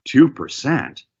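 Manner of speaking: slow echo of two percent; slow mirror. Shown as a demonstration. Agent mirroring the seller's number, slow. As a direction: hand the number back slowly. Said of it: "upward inflection at the very last word".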